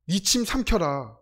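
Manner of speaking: teacher's slow, dry comeback; slow deadpan retort. Retold or imitated. Teacher answers the thirsty student, slow and deadpan. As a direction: drag it out like a weary teacher. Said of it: "불평, 불만 친구들이".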